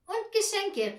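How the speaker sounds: high, loud eager shout; boy shouting his wish; excited child's call. A narrator's reading. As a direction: blurt it out like an excited kid. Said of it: "rief Peter".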